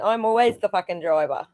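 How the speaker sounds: lightly put-on Australian accent; easygoing mock-Australian line; Aussie accent. Shown as a demonstration. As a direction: show off your Aussie accent. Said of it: "that's my Aussie accent".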